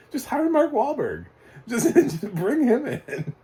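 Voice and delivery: half-laughing rant at the filmmakers; exasperated outburst. Real, not acted. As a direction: throw up your hands at the casting. Exasperated rant at casting choice.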